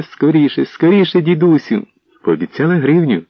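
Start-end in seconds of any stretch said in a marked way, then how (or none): 0.0-1.9 імітоване благання. Retold or imitated. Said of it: "Я благала діда Погонича".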